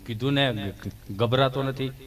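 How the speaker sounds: low, sheepish mumble; Gabho's voice. Retold or imitated. Gabho mumbles back to the doting nurse, low and sheepish. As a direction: answer low like a shy villager.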